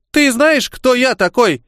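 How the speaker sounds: high, silky falsetto menace; insinuating falsetto. A narrator's reading. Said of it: "вкратчиво начал фальцетоголосый".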